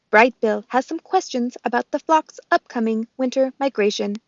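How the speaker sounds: robot voice. Acted. Roz the robot speaks.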